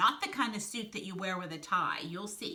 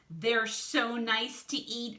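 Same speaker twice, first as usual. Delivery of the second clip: relishing slip; 4 semitones higher, 4 dB louder, slower than usual. Acted. Snake lets slip the truth.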